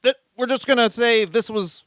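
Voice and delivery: high, incredulous rant; mock disbelief. Reacting to a singer's old lyrics, high mock incredulity. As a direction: squeak it up in outraged disbelief.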